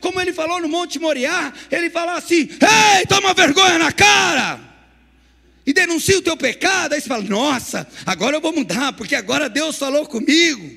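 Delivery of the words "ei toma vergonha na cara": booming, drawn-out, thundering voice from on high. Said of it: "como voz de trovões".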